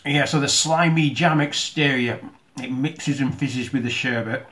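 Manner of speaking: talking while chewing; mouth full. Real, not acted. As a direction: speak through a mouthful of sweets. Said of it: "talking with my mouth full".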